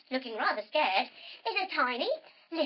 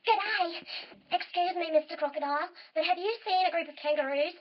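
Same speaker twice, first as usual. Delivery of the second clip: lightly voiced, slightly high kangaroo; a hint of a polite small kangaroo; chirpy, lightly voiced character; little kangaroo; 4 semitones higher than usual. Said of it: "hops right up to the crocodile and says".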